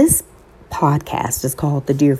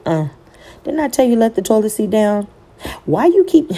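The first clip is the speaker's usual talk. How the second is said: mock annoyed spouse; 5 semitones higher, faster than usual. Mock-scolding a spouse over the toilet seat, fast annoyed nagging. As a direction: playfully scold your spouse about the seat. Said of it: "looking at your spouse sideways".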